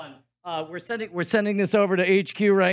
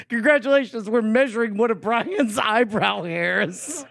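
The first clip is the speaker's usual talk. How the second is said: excited announcement; 4 semitones higher, slower than usual. Acted. Announcing a guest, mock excitement.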